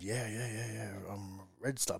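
quietly murmured yes; hushed. Retold or imitated. Coach quietly admitting his team to the butcher. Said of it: "but I'm whispering it".

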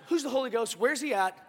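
hammed-up threat, climbing to loud; comic bravado, ready to fight; a joking tough-guy "old school" challenge. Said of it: "He's like".

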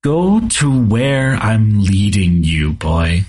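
lightly voiced soft old spirit; a hint of a warped, ancient elder. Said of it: "you hear a soft elder voice. But it's warped".

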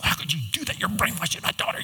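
high, quick, accusing mother's voice; mock angry mother. Mother rips into the youth pastor: mock angry, pitched high.

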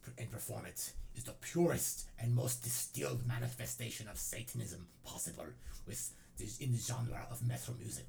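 put-on Norwegian accent, reading a manifesto; fake Norwegian accent. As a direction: read it as a fake-Norwegian black metal purist. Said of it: "make a fake Norwegian accent".

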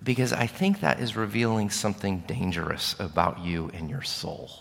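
soft, gentle counselor's voice; quiet and tender; gently. Retold or imitated. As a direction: say it gently, like breaking hard news. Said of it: "ever so gently she said".

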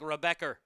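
"Rebecca" ending in an added R sound; Boston intrusive R. Shown as a demonstration. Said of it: "They'll use it when a vowel ends a sentence".

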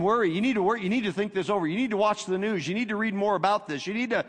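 mild nagging, anxious voice of fear. Retold or imitated. Preacher voicing fear nagging the listener, mild anxious nag. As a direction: nag like a worried inner voice. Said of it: "He's always saying".

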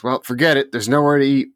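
imitated storming-in. Woman storms in from the parking lot, mock exasperated. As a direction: announce it like an imitated fed-up customer. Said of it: "this lady comes storming in".

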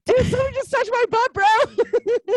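loud, very high, rushed mock panic; hammed-up high-pitched freak-out; mock screaming. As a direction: shriek it fast like a spooked bro. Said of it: "like, screaming".

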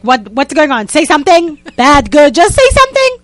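begging her to say anything; inner panic. Retold or imitated. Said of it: "hysterical from the inside".

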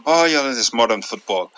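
put-on lightly done Irish accent, barely off his own voice; a half-hearted Irish accent; bad Irish accent. Quoting Roy Keane in a bad Irish accent. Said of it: "So I know it's a bad Irish accent".

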